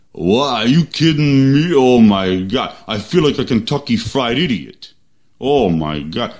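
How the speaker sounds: lightly voiced mumbling boxer; a hint of a slurred Philly fighter; Rocky Balboa. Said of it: "that was Rocky Balboa".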